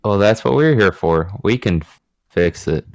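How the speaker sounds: hesitant reassurance, faltering midway; unsure. Acted. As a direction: reassure them, but stumble before finishing. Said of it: "You don't sound too confident".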